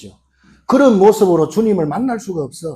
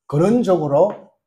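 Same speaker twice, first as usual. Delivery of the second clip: slow emphasis; slower than usual. Shown as a demonstration. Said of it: "근원적으로 다친 것이 있어요".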